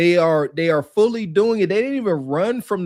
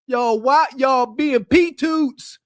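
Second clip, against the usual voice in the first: incredulous shout; 5 semitones higher, much slower than usual. Real, not acted. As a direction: drag it out and shout it in disbelief. Scolding the app's creators.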